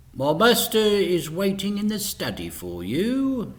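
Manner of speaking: a stiff announcement; announcing butler. A narrator's reading. Butler to the visitors at the door, formal. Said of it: "he announced".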